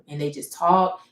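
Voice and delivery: flat monotone, slow; monotone voice, no inflection at all. Shown as a demonstration. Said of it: "they're just monotone".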